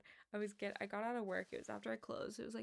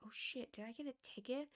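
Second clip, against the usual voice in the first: whispered under her breath in alarm; panicked whisper; 2 semitones higher, 5 dB quieter than usual. Retold or imitated. To herself, spotting paper on the windshield, alarmed whisper. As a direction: breathe it out as a sudden scared thought. Panicked thought about a ticket.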